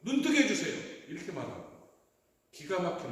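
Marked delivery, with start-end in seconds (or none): 0.0-0.9 eager, higher-pitched plea; acted-out beggar's ready request; Bartimaeus answering without hesitation. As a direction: answer at once, pleading for sight. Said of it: "이 바디메오는 서슴지 않고".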